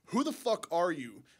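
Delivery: normal talking voice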